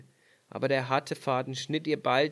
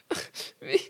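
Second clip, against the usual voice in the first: sehr hoch, weinerlich verzweifelt; ängstlicher Ruf; 3 dB louder than usual. Acted. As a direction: angstvoll aufschreien. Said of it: "rief sie". (die Königstochter weint über die Scherben, sehr hoch)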